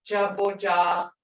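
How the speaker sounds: "jaboja" with long, open ah sounds; drawn-out "ah". Shown as a demonstration. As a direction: let the ah ring in "jaboja". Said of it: "hear that ah".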